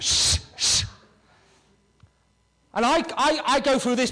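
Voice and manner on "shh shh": unvoiced hushing shh; wife hushing the barking dog, unvoiced; shushing. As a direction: hush the dog with a breathy shh.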